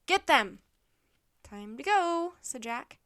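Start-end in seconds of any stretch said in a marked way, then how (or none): 0.0-0.6 loud, raised attack command; shouted order. A narrator's reading. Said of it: "the centurion shouted again". 1.4-2.3 louder, raised call to flee; urgent. A narrator's reading. Children about to flee pursuit.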